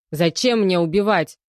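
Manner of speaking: loud urgent burst; hurried and urgent. Acted. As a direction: rush to convince the investigator. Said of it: "быстро заговорил задержанный". (торопливо, громко)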